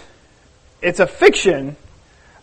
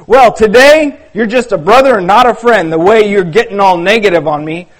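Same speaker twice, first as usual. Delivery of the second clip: heated argument; 5 dB louder than usual. Acted. Judah continues arguing loudly.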